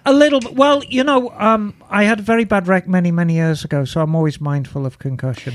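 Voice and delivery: femme fatale. Acted. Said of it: "she had an American accent".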